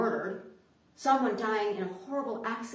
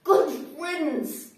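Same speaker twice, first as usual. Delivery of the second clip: much louder, with a slowed-down "Good riddance"; loud blunt eulogy; 3 semitones higher, 10 dB louder than usual. Pretend. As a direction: shout the insult, then draw out the send-off. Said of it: "a colleague gets up and says about him".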